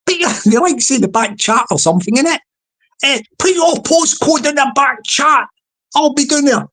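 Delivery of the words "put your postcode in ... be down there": put-on slipping into a Scottish accent, "doon" for down; lightly Scottish mock threat. Online bigmouth demanding a postcode, hint of Scottish accent. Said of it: "we're going into a Scottish accent there".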